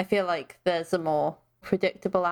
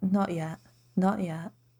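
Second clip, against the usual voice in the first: put-on soothing voice. Recounting a fight scene, acting out Oaken's reply in a little soothing voice. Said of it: "Like in this little soothing voice".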